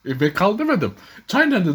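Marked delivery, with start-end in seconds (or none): 1.3-1.7 high, insistent "Çay nerede?" with a falling end; high-pitched retold question; retold asking, much higher.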